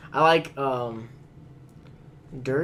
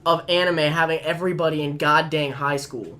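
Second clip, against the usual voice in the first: exasperated rant; 5 semitones higher, 6 dB louder than usual. Real, not acted. Ranting about high school anime.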